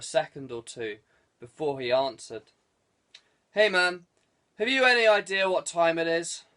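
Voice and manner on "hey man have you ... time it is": just woken, faintly transatlantic; half-asleep American-tinged English; sleepy Anglo-American accent. A narrator's reading. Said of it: "he said in his well-known Anglo-American accent".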